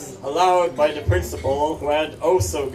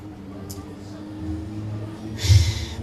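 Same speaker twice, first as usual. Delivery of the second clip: heavy sigh; 6 semitones lower than usual. Acted. Long breath before naming the tragedy.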